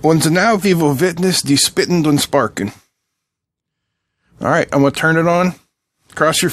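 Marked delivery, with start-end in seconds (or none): 0.0-2.7 hammed-up mock German accent, lightly done; phony German accent. Demoing the circuit to viewers, a playful mock German accent. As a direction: clown through it in a fake German accent. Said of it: "my phony half German, half French accent".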